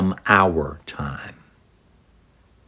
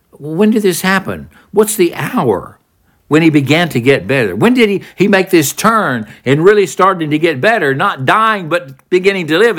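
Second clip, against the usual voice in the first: pitched up high, urgently asking the servants; eager questions; 6 semitones higher than usual. Retold or imitated. Father asking his servants when his son got better, high and urgent. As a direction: press them for the exact hour.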